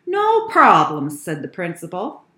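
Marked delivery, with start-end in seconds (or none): 0.1-1.1 high, loud, assured announcement; principal's bold assurance; confident. Acted. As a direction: declare it loudly, taking charge. Principal confidently takes over.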